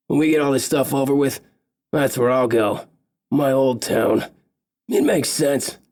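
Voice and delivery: the big elf chatting easily about going home; funny big elf. Acted. Big elf answering Visas about his accent, lightly voiced friendly elf.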